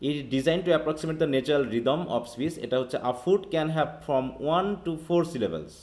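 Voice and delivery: slow, careful reading of the definition; teacher reading the book to the class; reading aloud. Shown as a demonstration. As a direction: read it out word by word. Reads the textbook aloud again.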